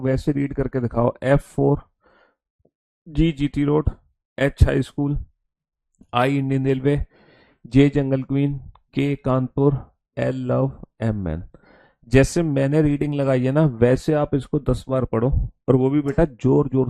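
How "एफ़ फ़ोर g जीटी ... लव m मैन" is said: measured recitation, item by item with pauses; read-aloud demo. Shown as a demonstration. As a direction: read out each pair separately for students to copy. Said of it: "जैसे मैं read करके दिखा रहा हूँ". (रुक-रुक कर पढ़कर दिखाते हुए)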